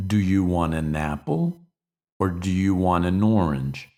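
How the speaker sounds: "Do you want an apple" said as separate slow chunks. Shown as a demonstration. Teacher repeating the sentence in slow, separated chunks. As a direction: break it into slow phrases.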